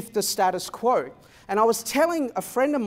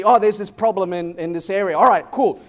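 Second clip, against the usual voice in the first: mock eager exclaim; 7 dB louder than usual. Businesses rushing to a fix.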